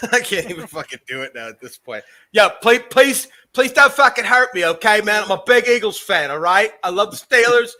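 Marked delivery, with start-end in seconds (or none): 2.3-7.7 mock pleading. Acting out the stranger begging.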